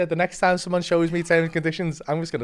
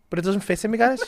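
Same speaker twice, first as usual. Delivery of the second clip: laughing; 4 semitones higher, faster than usual. Retold or imitated. Punchline of the garage story.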